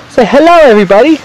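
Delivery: high sing-song coaxing. Real, not acted. Dad coaxing baby.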